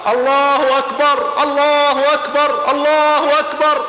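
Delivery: high, slow, loud chant of Allahu akbar; takbir cry. Retold or imitated. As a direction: call it out like a marching army. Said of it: "يكبرون ثلاث مرات".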